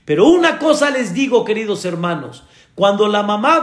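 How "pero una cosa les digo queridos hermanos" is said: higher, fast emphatic address; preaching emphasis. Acted. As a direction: grab the congregation's attention.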